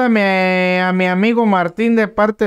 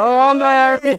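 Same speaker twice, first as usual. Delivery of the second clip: echoed "¡Ole!", pitched up; playful high cheer; mock bullfight cheer; 4 semitones higher than usual. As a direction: join in the bullring olé.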